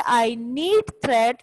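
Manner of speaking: very slow, each word set apart; slow dictation. Shown as a demonstration. Teacher dictating example sentences to the class, word by word. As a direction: read it out so students can write along. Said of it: "First two lines is for the first sentence".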